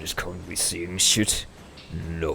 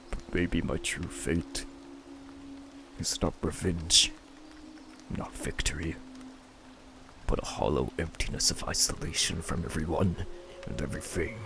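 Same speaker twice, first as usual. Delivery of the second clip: despairing murmur; 3 semitones lower, 6 dB quieter, faster than usual. Acted. Despairing lonely monologue.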